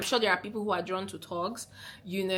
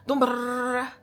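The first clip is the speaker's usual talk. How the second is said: mock rushed babble; 4 semitones higher than usual. Shown as a demonstration. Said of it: "Don't talk like me".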